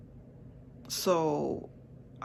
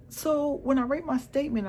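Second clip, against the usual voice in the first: usual speaking voice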